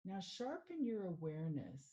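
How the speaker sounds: measured meditation guide with long pauses; guided meditation. Acted. Mindfulness coach leading listeners through a sound meditation, unhurried guiding voice. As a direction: guide them gently into stillness, phrase by phrase.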